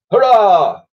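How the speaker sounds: loud, high cheer of many men; shouted hurrah. Acted. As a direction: cheer it out like a crew. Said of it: "shouted the men".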